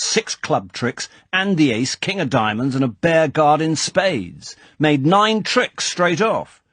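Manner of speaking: lightly voiced older lord, fuming; a hint of an indignant aristocrat griping about cards; mildly exasperated clubman ranting; irritated club chairman. Basildon fuming over bridge hand.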